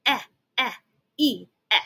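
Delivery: repeated clipped eh, eh; teacher sounding out the letter E; short e sound. Shown as a demonstration. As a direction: model the eh sound. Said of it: "That's the sound that E makes".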